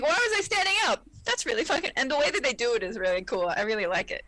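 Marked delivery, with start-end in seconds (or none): 0.0-1.0 high, giggly confusion; puzzled and amused, pitched up; confused Beverly. Retold or imitated.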